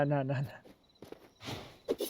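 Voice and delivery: slow, fading nah; slow drawn out. Real, not acted. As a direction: drag each nah out.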